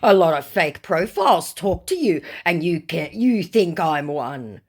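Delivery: mock protesting scammer. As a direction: act the fake star's protest.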